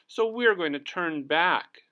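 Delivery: a small animal deciding to retreat; high timid voice; Harry Clary's voice. Acted. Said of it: "said Harry Carey".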